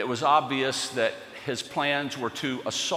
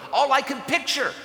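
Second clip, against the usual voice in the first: angry prayer; 10 semitones higher than usual. Pretend. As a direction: let the resentment burst out.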